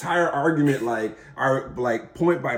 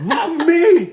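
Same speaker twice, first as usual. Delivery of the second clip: high, louder, laughing plea; imitating excited wife; 9 dB louder than usual. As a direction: beg it in a squealing laugh. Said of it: "They'll be like".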